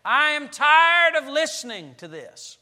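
a listener's exasperated thought, said out loud; fed-up listener. Pretend. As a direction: blurt it out like a bored churchgoer at the end of their rope. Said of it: "Let's say that entered your mind".

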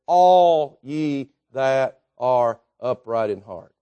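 slow, low, word by word on "all ye that are upright in heart"; emphatic scripture reading. Real, not acted. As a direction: draw out "shout for joy" deliberately. Repeats verse slowly for emphasis.

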